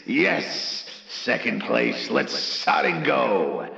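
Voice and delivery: usual speaking voice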